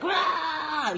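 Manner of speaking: high roar at no great volume; mock aggressive yell. Teacher re-enacting yelling at kids during basketball, mock-aggressive roar. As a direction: imitate your own battle roar, held back. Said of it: "I was yelling, like, aggressively".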